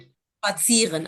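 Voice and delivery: स्पात्सियरन slowly with a ts sound, not z; pronunciation correction. Shown as a demonstration. Teacher correcting student's z sound, slow careful model. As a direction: model स्पात्सियरन as drawn-out "shpat-see-ren". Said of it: "आप इसको ज बोल".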